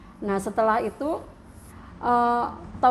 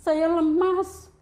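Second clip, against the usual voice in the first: tearful, drained; 3 semitones higher than usual. Real, not acted. Crying as she recalls collapsing.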